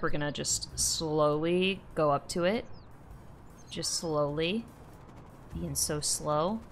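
low, soft creeping-up voice; hushed sneaking. Pretend. Player creeping up on a bird, hushed and low. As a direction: murmur it low as you stalk.

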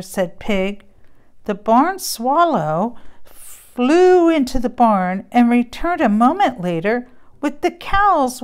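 lively bedtime storybook reading with voices; story narration. A narrator's reading. Parent reading a Christmas story to a child, animated storybook voice. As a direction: read it like a picture book to a child. Reads a farm tale aloud.

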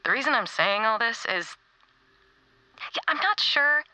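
gentle heartfelt message to a friend; tender farewell. Acted.

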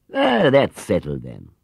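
a hint of a gentle old gentleman; lightly voiced kindly shopkeeper. Mr Gruber inviting Paddington along, kindly. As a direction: kind and unhurried, offering a treat.

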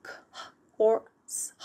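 "k" and "s" sounded apart from a puffed h; separated letter sounds. Shown as a demonstration. Teacher showing learners what not to say, split letter sounds. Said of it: "We do not pronounce those as".

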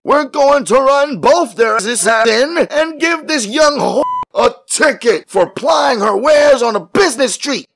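high, shouted police threat; irate cop shouting; harsh policeman. A narrator's reading. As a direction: keep hammering the charges, voice way up. Angry policeman continues harsh orders.

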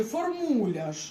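формуляж slowly, ending in a hard ж; Polish pronunciation. Shown as a demonstration. Teacher gives the pupil the Polish word, slowly. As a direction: say формуляж slowly, ж instead of р at the end. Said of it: "Це типа як формуляр".

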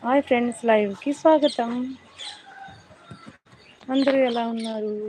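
loud, upbeat live-stream greeting; energetic stream intro. Real, not acted. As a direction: greet the viewers with a burst of energy. Greeting viewers opening a live stream.

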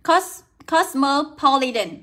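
"cosmopolitan" started, then restarted slowly and clearly; slow, careful "Cos-, cosmopolitan"; pronunciation demo. Shown as a demonstration. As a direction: model "cosmopolitan" slowly with a clear o in the first syllable. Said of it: "được đọc là âm o".

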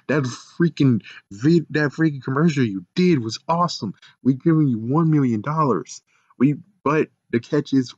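mock Simone pitch. Voicing Simone's offer.

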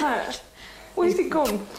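asking through nervous laughter; laughing in shock. Real, not acted. Mother asks Pat about the scan, laughing in shock. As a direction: laugh the question out, stunned. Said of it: "I keep laughing in shock".

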